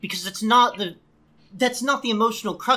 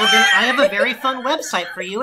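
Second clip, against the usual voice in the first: loud sarcastic offer; 6 dB louder, faster than usual. Real, not acted. Mock-sweet jab, loud.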